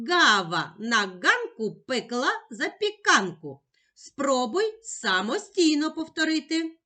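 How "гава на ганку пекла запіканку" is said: quicker, connected tongue twister; швидше. Shown as a demonstration. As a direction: run the words together a bit faster. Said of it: "А тепер швидше". (швидше, майже без пауз)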